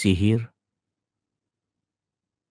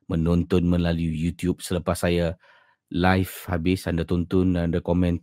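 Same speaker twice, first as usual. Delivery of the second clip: ordinary delivery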